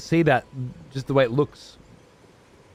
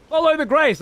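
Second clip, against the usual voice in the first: high mock voice of the game's advice; mocking quote; 12 semitones higher, 4 dB louder than usual. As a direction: parrot the game's nagging advice. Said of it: "they were like".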